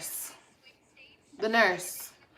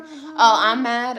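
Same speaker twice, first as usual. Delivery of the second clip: mock commenter; 6 dB louder, much slower than usual. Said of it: "mock commenter".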